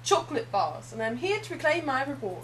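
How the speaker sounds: put-on loud greedy British boy, quoting a film; quoting the fat kid. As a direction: belt it out like a spoiled British kid. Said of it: "we always quoted that fat kid who said".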